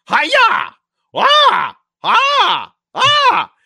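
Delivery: very high, loud karate shrieks; karate howling. Retold or imitated. Louis howling karate yells at the bad guys, shrieking. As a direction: shriek each cry to the top. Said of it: "he's sitting there going".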